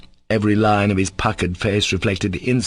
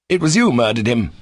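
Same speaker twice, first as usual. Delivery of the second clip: sudden cry; 3 semitones higher than usual. Acted. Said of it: "he cried suddenly".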